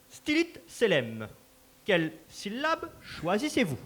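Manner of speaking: grand, formal announcer delivering the joust rules; ceremonial announcer. Acted. Master of ceremonies announcing the final joust to the crowd, formal and grand. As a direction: proclaim it to the whole hall like a herald.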